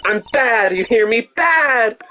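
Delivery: high, hammed-up protest; mock-tough, squeaky indignation; indignant outburst. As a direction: insist on it, pitch climbing to the last word. Acted retort to being called cute.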